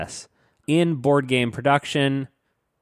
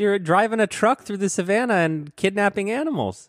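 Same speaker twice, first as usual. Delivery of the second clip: mock outrage; 8 semitones higher than usual. Mock outrage at bland rules explanation.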